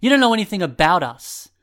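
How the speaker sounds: high, loud furious outburst; angry. A narrator's reading. Fallen boy yells at the group, furious. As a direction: throw it back in anger.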